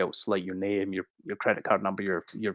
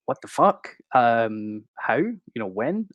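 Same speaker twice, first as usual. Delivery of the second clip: shocked confusion; 3 dB louder, slower than usual. Retold or imitated. Answering police who accuse him of a data breach, stunned. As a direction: caught off guard by officers at the door.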